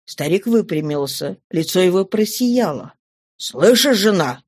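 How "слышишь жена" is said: mild call to a wife. Acted. Excited old man tells his wife, mild cry. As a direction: call out to her, lightly. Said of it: "крикнул он".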